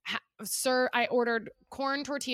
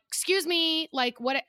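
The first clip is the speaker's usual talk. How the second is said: higher-pitched mock affronted complaint; retold indignation; 6 semitones higher, slower than usual. Diner retelling confronting the waiter, indignant. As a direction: act out being taken aback.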